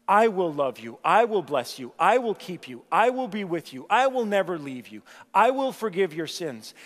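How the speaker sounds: loud, steady vows; preacher giving God's vows at full voice; God's promises proclaimed. Acted. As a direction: proclaim each promise firmly.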